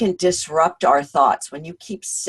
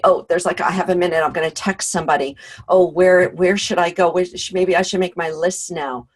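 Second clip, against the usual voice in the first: louder, hurried acted-out mental scramble; crazy busy; 4 dB louder than usual. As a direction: tumble from one task to the next. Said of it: "what I call crazy busy".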